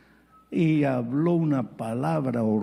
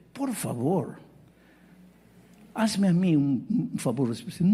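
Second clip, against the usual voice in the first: pleading. Retold or imitated. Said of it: "Le supliqué".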